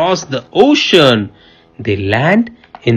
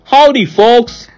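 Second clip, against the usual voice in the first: cowboy greeting; 9 semitones higher, 3 dB louder than usual. Acted. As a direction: greet them like a friendly diner owner. Midwest Miss Rabbit greets.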